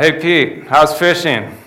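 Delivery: high, loud mock call across the water; imitated holler from the beach; retold yell. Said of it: "he yells out".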